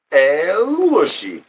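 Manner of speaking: slow, high, stretched call of El Wushy; drawn-out call to a pet; cat-calling sing-song. Acted. Calling the cat in a long high sing-song.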